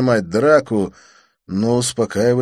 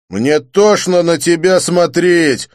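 disgusted; 10 semitones higher, 11 dB louder, slower than usual. A narrator's reading. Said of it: "заявил блондин".

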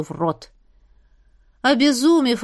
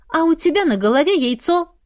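retorting; 6 semitones higher than usual. Acted. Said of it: "парировала я".

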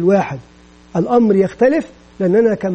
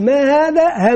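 teacher quiz question; 4 semitones higher, much slower than usual. Shown as a demonstration. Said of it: "يشير إلى الحرف الأول".

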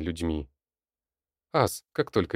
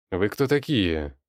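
bravado; slower than usual. Acted. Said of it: "с бравадой в голосе спросил Петя".

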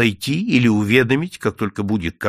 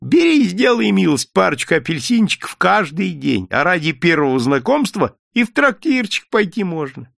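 wheedling offer; 7 semitones higher, 4 dB louder than usual. A narrator's reading. Vendor offers bribe.

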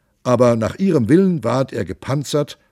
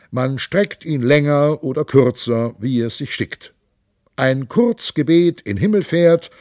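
a lightly voiced boisterous monk, raised and lively; jovial monk; 4 semitones higher than usual. The monk boasts to his companions, hearty and raised. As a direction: play the hearty monk bragging about his nose.

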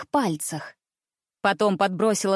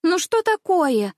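bored huffy princess; 8 semitones higher, slower than usual. A narrator's reading. Princess mocks the reproaches.

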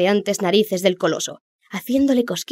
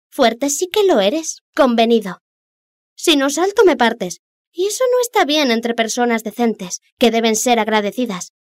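high, mocking fish voice; cheeky little fish; 4 semitones higher, 3 dB louder than usual. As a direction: tease him, pitched up. Little fish answers the Rex.

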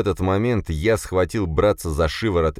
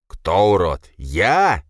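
loud offended roar; bellowing; 2 semitones higher, 4 dB louder, much slower than usual. A narrator's reading. Boris roaring back at his brother's insult, loud. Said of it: "заревел Боря".

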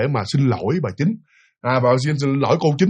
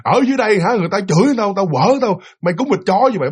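higher, insulting scold; rude ghost cursing; 5 semitones higher than usual. Retold or imitated. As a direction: curse him as an equal. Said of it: "Chửi luôn".

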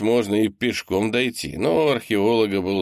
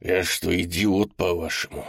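plain reading voice

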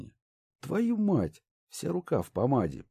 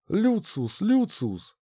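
higher, urgent calling out; calling anxiously down the stairs; 11 semitones higher, much slower than usual. A narrator's reading. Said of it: "взволнованно доносится".

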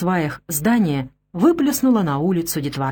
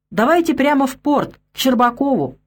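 raised, higher-pitched call; 6 semitones higher than usual. A narrator's reading. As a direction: call out to the lads from a vehicle. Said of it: "он крикнул ребятам". (окликая, повышенным голосом)

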